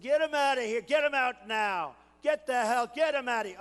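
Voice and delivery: loud, gruff command to throw him out; rough order. Retold or imitated. Retelling ordering a rally protester removed, loud and rough. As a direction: bark it at security, rough and impatient. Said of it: "And I was rough".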